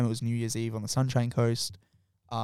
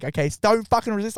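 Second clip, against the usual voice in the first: mock cop order; 9 semitones higher, 4 dB louder than usual. Female cop grabbing arm.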